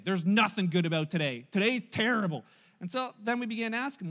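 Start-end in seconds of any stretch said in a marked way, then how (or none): 0.1-2.5 put-on louder, lower sulky kid insisting; grumpy child. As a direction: play a stubborn son refusing cheer. Son answers father, voiced grumpily.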